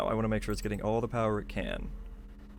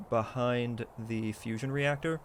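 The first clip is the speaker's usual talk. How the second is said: ordinary talk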